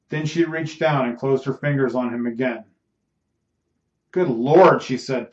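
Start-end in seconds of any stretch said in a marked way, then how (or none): 4.1-4.8 a louder burst of pleased excitement; delighted exclamation, pushed out louder; pleased and excited. Acted. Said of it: "pleased and excited".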